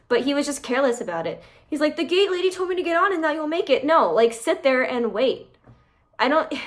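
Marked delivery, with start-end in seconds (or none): 2.0-3.8 mocking boyfriend voice. Mocking the boyfriend's excuse to his girlfriend, higher whiny voice. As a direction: mimic him as clueless and pleased with himself.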